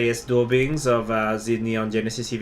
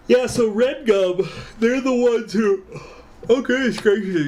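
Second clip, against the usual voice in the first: over-excited burst; 11 semitones higher, 3 dB louder than usual. Real, not acted. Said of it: "excuse me".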